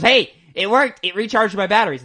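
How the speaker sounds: loud, high, excited announcement; hammed-up eager good news; triumphant report. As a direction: crow about a surprise success. Acting out Snake's triumphant call back.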